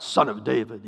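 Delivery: mild retold cry, a bit firmer. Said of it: "even lou-, louder".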